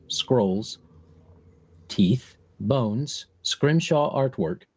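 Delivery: slow, deliberate list of eerie objects; game master's scene setting. Pretend. Game master describing the strange room, slow scene-setting. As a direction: set the scene slowly, pausing between items.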